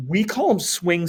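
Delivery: slow line where the voice cracks slightly. Real, not acted. Teacher explaining swing states to class, tiny crack. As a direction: let the voice crack a little mid-phrase. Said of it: "Whoa, miniature voice crack there".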